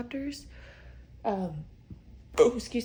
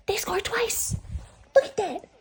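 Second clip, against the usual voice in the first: high, breathy thrilled whisper; excited whisper; 12 semitones higher, 3 dB louder than usual. Real, not acted. Hockey fan whispering amazed that Montreal scored twice. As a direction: gasp it out in wonder.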